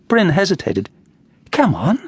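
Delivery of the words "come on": lightly impatient urging; politely impatient. Acted. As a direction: nudge him along, a bit impatient. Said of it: "the girl said impatiently".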